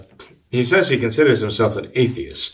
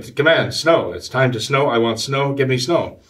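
higher-pitched demand, no real shouting; mock yell; 4 semitones higher than usual. Retelling young Calvin's snow dance, mild mock yell. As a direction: imitate a boy yelling at the sky. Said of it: "He's yelling".

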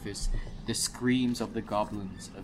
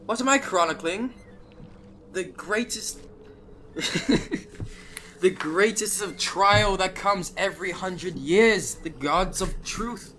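higher, grand theatrical dwarf voice; hammy stage actor; 7 semitones higher, 4 dB louder than usual. Acted. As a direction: proclaim it like a pompous storyteller.

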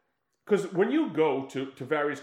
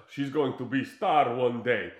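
mock Russian accent; 2 semitones lower, slower than usual. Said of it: "She's like".

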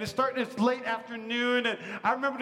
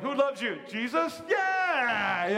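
cheery church call-out; much slower than usual. Pretend. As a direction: ham up a kids' church quiz. Mock church call and response.

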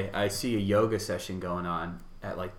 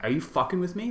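mock disbelief, much higher; 10 semitones higher, 4 dB louder than usual. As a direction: retell your own stunned reaction. Retold disbelief at brother.

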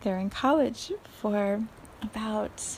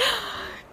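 gasp; 12 semitones higher than usual. Retold or imitated. Mother sees student walk out.

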